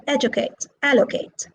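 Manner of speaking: "educate" and "allocate" stressed on the opening syllable; stress on first syllable. Shown as a demonstration. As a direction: say ED-ucate, AL-locate. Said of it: "stressed on the first syllable".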